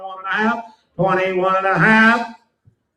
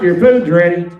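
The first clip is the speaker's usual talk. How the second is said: yelling across the room; 8 dB louder than usual. Real, not acted. Calling Mark to eat.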